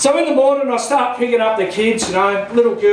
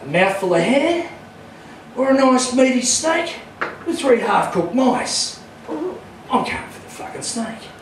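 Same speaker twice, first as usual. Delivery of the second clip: scheming ferret; 4 dB quieter than usual. Retold or imitated. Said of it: "looking at it going".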